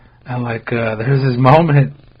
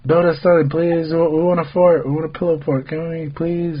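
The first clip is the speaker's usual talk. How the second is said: put-on pleading kids; 3 semitones higher than usual. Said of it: "They're like".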